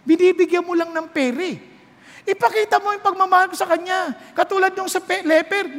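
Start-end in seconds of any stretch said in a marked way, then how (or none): none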